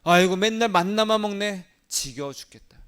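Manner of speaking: loud, high groaning complaint; fed-up moan. Retold or imitated. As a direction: moan about the same food. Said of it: "불평을 했어요".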